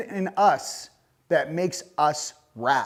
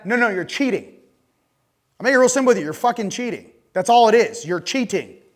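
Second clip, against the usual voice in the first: heated; 3 semitones higher, 5 dB louder than usual. Real, not acted. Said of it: "obviously I'm getting a little heated".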